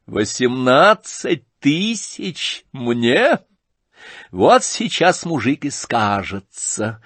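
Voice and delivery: slow, cheeky mocking question; insolent mockery. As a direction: tease him with brazen scorn. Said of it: "с наглой фамильярностью".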